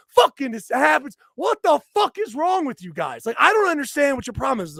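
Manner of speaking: mock rage yelling; retold angry shout. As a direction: let him have it through the window. Windows down, yelling at guy.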